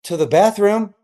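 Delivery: put-on high, matter-of-fact child; innocent kid voice. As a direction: answer like a clueless boy. Son's innocent answer quoted.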